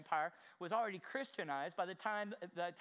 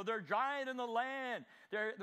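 fearful report; 4 semitones higher, slower than usual. Retold or imitated. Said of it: "ten come back and go".

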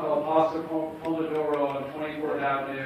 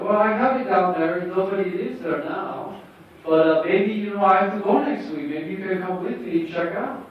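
put-on higher accented voice; Tommy impression; 4 semitones higher, 4 dB louder than usual. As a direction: imitate Tommy's odd accent. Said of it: "what's it doing".

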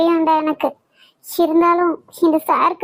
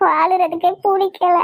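crying. Acted. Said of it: "அழாதம்மா".

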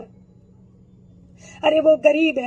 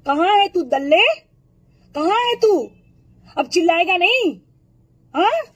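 angry calling out; 3 semitones higher than usual. Real, not acted. Yelling at Arnab Goswami to show himself, angry calling out.

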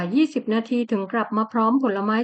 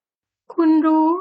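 stunned; 5 semitones higher, 5 dB louder, much slower than usual. Acted. Shocked heroine realises he knows.

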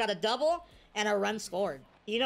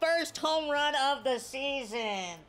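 higher, drawn-out play-by-play call; home run call; 5 semitones higher than usual. Real, not acted. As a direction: call it like an excited announcer.

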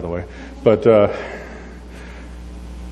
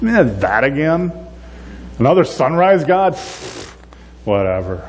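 bored dismissal; 3 semitones higher than usual. Retold or imitated. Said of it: "we're like".

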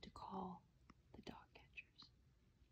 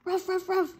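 loud high barking; playful loud woofs; dog barking; 10 semitones higher, 9 dB louder than usual. A narrator's reading. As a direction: bark like an excited dog. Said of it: "Sam barking".

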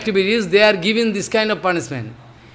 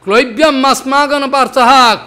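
Krishna's heavy, scolding rebuke; stern rebuke; 3 semitones higher, 4 dB louder than usual. Acted. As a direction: scold him like a stern master, pressing hard. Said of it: "Krishna speaking this way, so heavy".

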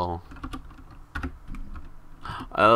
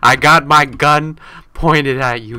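mock tough threat; 5 semitones higher, 11 dB louder, slower than usual. Sheriff threatening player.

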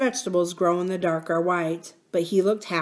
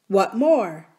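lightly voiced miner boy; 5 dB louder than usual. Miner boy asking princess for full name, lightly boyish. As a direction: ask back as the young miner.

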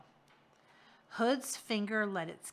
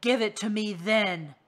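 demanding; 8 dB louder than usual. Acted. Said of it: "Hood demanded".

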